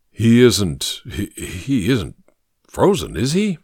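halting, stammered worry; a touch of frightened faltering. Acted. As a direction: stumble over the words in dread. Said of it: "faltered Dobley".

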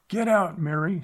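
high, loud urgent shout; urgent shout to his wife; yelled. A narrator's reading. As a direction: yell a warning to run. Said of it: "Sloan yelled".

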